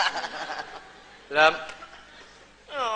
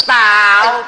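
startled shout; 2 semitones higher, 9 dB louder than usual. Acted. Startled by loud crying.

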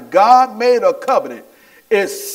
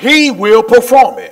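loud, punched congregational call; emphatic rallying declaration; leading a shout; 4 semitones higher, 7 dB louder than usual. Real, not acted. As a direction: call it out for the crowd to echo. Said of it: "Come on, shout with me".

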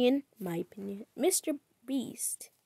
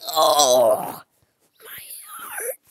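mock heartbreak; 6 semitones lower, 10 dB louder, much slower than usual.

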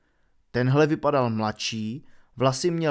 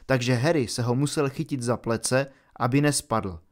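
ordinary delivery, nothing marked

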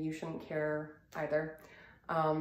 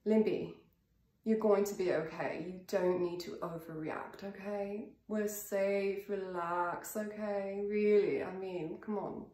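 lightly put-on British accent. Shown as a demonstration. Coach telling Limpy not to overreact, in a British accent. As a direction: reassure briskly in a playful British accent. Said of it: "just adding in that accent".

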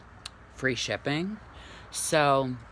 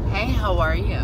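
model line; 8 semitones higher, 8 dB louder than usual. Shown as a demonstration. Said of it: "What do you want me to say".

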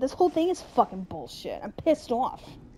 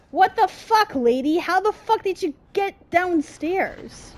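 outraged disbelief; 6 semitones higher than usual. Real, not acted. Angry disbelief at enemy.

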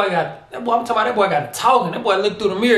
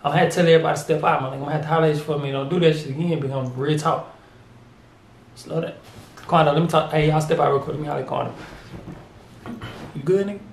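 pretend private talk; 4 semitones lower than usual. Pretending to pull the rapper aside, low hushed lecture.

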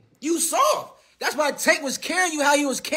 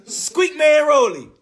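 slow mocking taunt; 3 semitones higher, 4 dB louder, slower than usual. Coining taunting nickname for rival.

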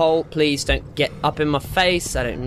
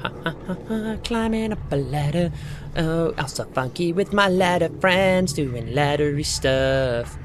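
silly funky voice; 3 semitones higher than usual. Pretend. Silly voice while climbing ladder.

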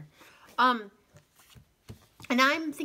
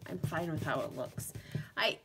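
soft unvoiced whisper; 3 semitones lower, 6 dB quieter than usual. Real, not acted. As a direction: whisper it to yourself. Aside while working.

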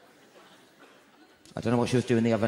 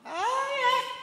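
high surprised oh. Acted. Mock surprise squeak.

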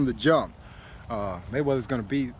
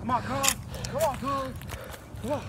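cheering shout; 10 semitones higher than usual. Real, not acted. Cheering on Carlos's sprint.

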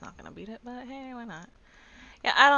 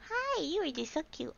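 high cooing voice; 11 semitones higher, 4 dB quieter than usual. Real, not acted. Cooing at a cute creature.

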